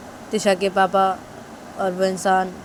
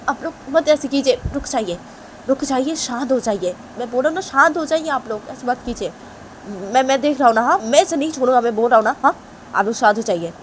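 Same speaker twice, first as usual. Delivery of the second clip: higher, louder urging calm; loud pleading for calm; restraining man; 6 semitones higher, 4 dB louder than usual. Acted. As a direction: hold them back insistently.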